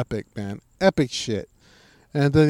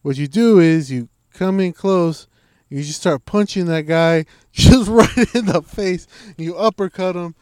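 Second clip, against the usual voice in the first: higher, louder, slow and emphatic; loud slow fight tips; 5 semitones higher, 7 dB louder than usual. Retold or imitated. Fighter explaining bar-fight punches, loud and slow. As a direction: bellow the punching advice slowly. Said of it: "he goes".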